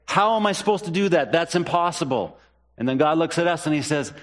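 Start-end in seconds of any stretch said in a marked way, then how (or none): 0.0-2.4 exasperated believer. Retold or imitated.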